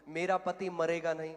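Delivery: loud, firm declaration of faith. Retold or imitated. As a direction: voice a coach modelling the words to repeat. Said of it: "बोल इसको".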